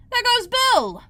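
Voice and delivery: very high, loud cry; chorus shout. A narrator's reading. Onlookers shouting as Bill flies out. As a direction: cry out all together. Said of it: "a general chorus of".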